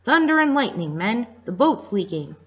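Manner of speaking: high, loud cry to the crew; pirate shouting to his men; alarmed pirate shout. Acted. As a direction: bellow the alarm. Pirate alarmed at leaking boat.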